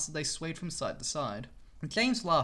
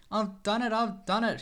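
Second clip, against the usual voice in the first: louder, lifted cry of success; triumphant puffing; 5 semitones higher, 5 dB louder than usual. A narrator's reading. James at the hilltop, triumphant and louder. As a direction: crow over the win. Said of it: "he puffed triumphantly".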